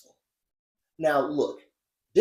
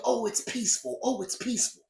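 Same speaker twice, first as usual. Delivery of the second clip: mocking pleading organizers; 5 semitones higher than usual. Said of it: "by saying".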